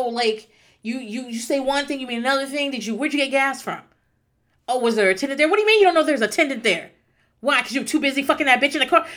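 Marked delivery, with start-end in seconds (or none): 2.7-9.1 jealous accusing rant. Pretend. Acted jealous interrogation.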